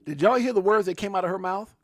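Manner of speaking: can you believe this; excited disbelief. Real, not acted. Repeats clip words to chat.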